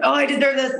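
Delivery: high-pitched hopeful inner voice; mock self-belief. Speaker replaying her back-and-forth on worthiness, mock self-belief. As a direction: lift it up, play-acting self-conviction.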